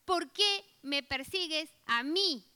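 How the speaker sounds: slow, weighty voice of Jesus demanding why; Jesus confronting. Retold or imitated. Jesus confronting Saul on the road, slow and grave. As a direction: lean into each word like a stern rebuke. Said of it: "es impresionante cómo él se pone".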